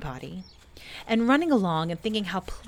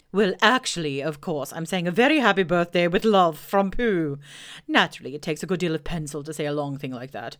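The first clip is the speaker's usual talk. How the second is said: Owl voice; 3 dB louder than usual. Acted. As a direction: boom it out like a pompous owl. Owl boasting.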